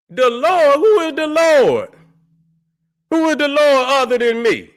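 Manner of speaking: who do you think the Lord is, scoff it out; incredulous scoff. Real, not acted. Scoffs at viewer's warning.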